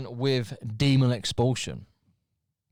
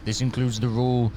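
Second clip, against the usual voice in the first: low, ominous formal reading; mock-sinister proclamation; menacing put-on accent; 5 semitones lower than usual. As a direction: intone it menacingly, stretching out the last words. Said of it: "I'm having to make it look menacing".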